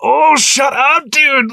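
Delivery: high, loud, slow sneering dismissal; drawn-out mock scoff; mocking shut up. Viewer mocking a character's taunt, high and sneering.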